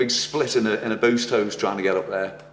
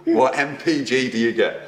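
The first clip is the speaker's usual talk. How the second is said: nervous laugh. Real, not acted. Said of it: "That's a nervous laugh".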